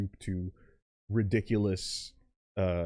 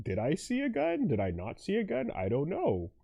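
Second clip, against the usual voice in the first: lightly voiced prosecutor, high start; a hint of a smug prosecutor; Edgeworth voice; 4 semitones higher than usual. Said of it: "says Edgeworth".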